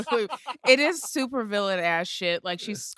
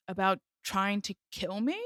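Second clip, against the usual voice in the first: imitating understated sarcasm; soft mock question, mildly sarcastic; 6 dB quieter than usual. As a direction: throw it back drily as a question. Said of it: "I do like her sarcasm there".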